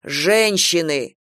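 slow reproachful correction; slow, reproving correction. Acted. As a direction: correct her slowly, reproachfully. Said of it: "укоризненно поправил".

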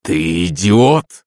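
slow angry growl. Acted. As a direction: growl the insult. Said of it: "зарычал Демидов".

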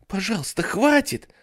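put-on high, pleading child cry; trembling little girl. Jennifer begs the babysitter to stop, high trembling plea. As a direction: beg shakily like a small girl. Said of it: "молила Дженнифер дрожащим голоском".

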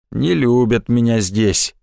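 low, slow sorry sigh. Acted. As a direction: sigh it, feeling unwanted. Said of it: "вздохнул Николай Васильевич". (со вздохом, обиженно)

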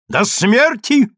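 high, drawn-out threat; stern, high-pitched dramatic outcry; menacing cry. A narrator's reading. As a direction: cry it out slowly to intimidate. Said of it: "вскричал грозно Александр".

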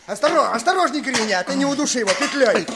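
urgent alarm. Acted. Raider warns his partner off the noose, alarmed. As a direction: call him off before he kills the man. Strangling victim, urgent warning.

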